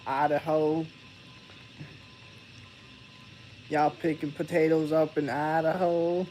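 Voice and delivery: put-on leaning into his own accent; mock-asking the chat about Idaho in a thicker accent. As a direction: lay the accent on a little thicker. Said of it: "using my accent too".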